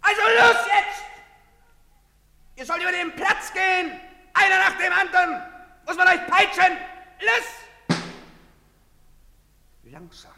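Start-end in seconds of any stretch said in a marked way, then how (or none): 0.0-7.4 loud, high commanding shouts; barked orders. Acted. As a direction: drive the crowd with shouted orders. Soldier drives people across square.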